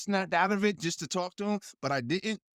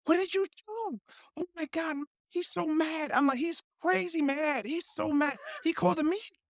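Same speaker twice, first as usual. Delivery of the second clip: higher, urgent alarm; lightly voiced anxious whisper-yell; panicked assistant; 9 semitones higher than usual. Producer's assistant warning him, mock panicked.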